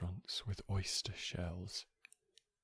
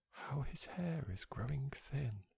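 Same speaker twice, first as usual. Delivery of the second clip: higher-pitched voice of remarking onlookers; gossiping onlookers; 6 semitones higher than usual. Acted. Onlookers remark on the speaker's thinning hair, higher gossiping voice. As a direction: quote the gossips in a raised pitch. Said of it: "they will say".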